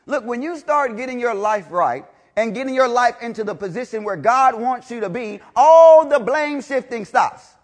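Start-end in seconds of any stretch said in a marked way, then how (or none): 5.6-7.5 loud, slow, drawn-out climax; preaching shout. Real, not acted. Preacher proclaiming to the congregation, loud and slow. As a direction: lean on every word.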